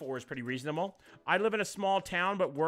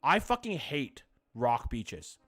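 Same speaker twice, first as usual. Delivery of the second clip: slow, louder rant, words dragged out; 2 semitones higher, 6 dB louder, slower than usual. Real, not acted. Telling chat how much rock beaches annoy, slow louder rant. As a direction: stretch out each word in disgust.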